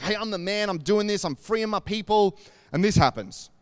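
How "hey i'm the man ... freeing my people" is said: higher, cocky strut in the voice; swaggering. Retold or imitated. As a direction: play Moses bragging to his people.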